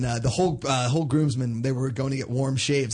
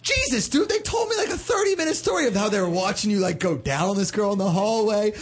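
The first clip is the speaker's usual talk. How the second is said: mock shout; 8 semitones higher than usual. Family retelling what they watched.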